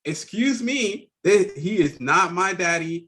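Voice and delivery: put-on slow, high, prim little girl correcting; sassy little girl. Little girl tells the lady he's not her dad. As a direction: correct the grown-up primly, word by word. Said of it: "The, the little girl said".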